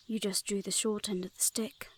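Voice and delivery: a sly whispered dig; whispered aside. Acted. Fae guard mocks the Hellhound messenger, whispered aside. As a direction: drop to a whisper for the jab.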